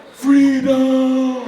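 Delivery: high, loud cry of freedom; triumphant yell. Retold or imitated. Kid nearly escaping out the front door, loud triumphant yell. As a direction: shout it like a victory cry. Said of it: "I was like".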